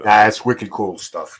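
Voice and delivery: slow native Rhode Island wicked cool; Rhode Island accent. Shown as a demonstration. Co-host demonstrates the real Rhode Island accent, slow. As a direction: show him how New Englanders say it. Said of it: "I can't do the accent you guys do".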